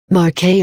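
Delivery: "marché" said mar-SHAY; French pronunciation. Shown as a demonstration. Teacher showing learners how French marché sounds, French pronunciation. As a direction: say "marché" with sh and a final ay. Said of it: "is pronounced marché".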